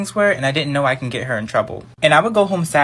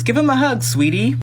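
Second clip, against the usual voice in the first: sweet mom voice; 8 semitones higher than usual. Retold or imitated. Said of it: "her mom goes".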